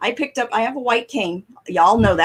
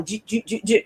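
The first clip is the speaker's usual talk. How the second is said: muffled behind a mask; 5 dB quieter than usual. Retold or imitated. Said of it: "The mask is going".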